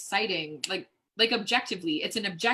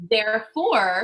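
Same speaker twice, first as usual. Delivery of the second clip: loud; 6 dB louder, slower than usual. Acted. Escalating repeated therefore at friend.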